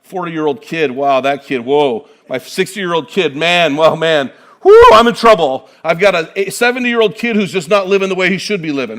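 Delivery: hammed-up fretting parent, swelling to a loud "whoo"; worried parent. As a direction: play the overwhelmed dad groaning about his grown kid. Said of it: "a lot of us are out there going".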